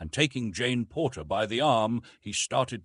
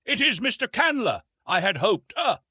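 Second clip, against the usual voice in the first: much higher, louder flustered fumbling; lame stammering; 13 semitones higher, 6 dB louder than usual. A narrator's reading. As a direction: cover the slip awkwardly. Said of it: "he ended lamely".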